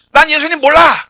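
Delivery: 높고 크게 내지르는 부인; 베드로처럼 단호히 소리쳐 부인하기; 외치는 부인. Acted. 베드로의 부인을 재연. (높고 큰 부인의 외침)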